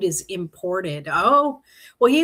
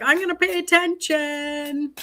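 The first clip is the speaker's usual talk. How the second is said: higher, stressing pay, a firm note to herself; emphatic self-quote; 7 semitones higher than usual. Retold or imitated. Tarot reader quoting her reaction to the cards, emphatic. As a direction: tell yourself firmly to pay attention. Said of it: "So I'm like".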